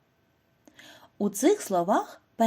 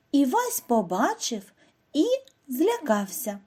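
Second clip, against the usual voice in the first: expressive poem reading; 2 semitones higher than usual. Shown as a demonstration. Teacher reads the poem to pupils, lively storytelling. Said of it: "Послухайте віршик Наталії Забіли".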